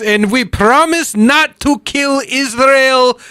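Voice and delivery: high, slow, giggling promise; can't keep a straight face; laughing through it. Retold or imitated. Dictator promises peace to the world, breaking into high laughs. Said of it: "He goes".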